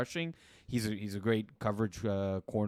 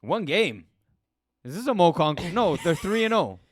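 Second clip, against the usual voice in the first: surprised disbelief; 8 semitones higher, 9 dB louder than usual. Real, not acted. Surprised reaction to record.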